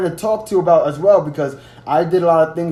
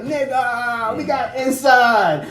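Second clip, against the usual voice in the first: mock insistent friend; 6 semitones higher, much slower than usual. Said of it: "I'd be like".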